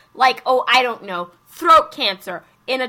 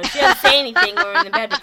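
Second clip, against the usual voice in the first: laughing while talking; 2 semitones higher, 4 dB louder, faster than usual. Real, not acted. Laughing through joke.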